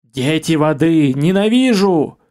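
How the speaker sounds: slow, clicking hateful fire voice; clicking alien voice. Acted. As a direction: spit out hatred like crackling flame. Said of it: "донёсся щёлкающий голос".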